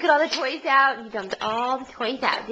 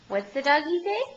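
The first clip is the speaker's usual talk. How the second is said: sing-song prompt; 5 semitones higher than usual. Real, not acted. Parent coaxes toddler to make a dog sound, high rising sing-song. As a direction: lift it up playfully to coax an answer.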